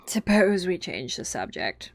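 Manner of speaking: slow, drowsy yawn. Acted. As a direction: say it through a yawn. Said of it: "interrupted, yawning".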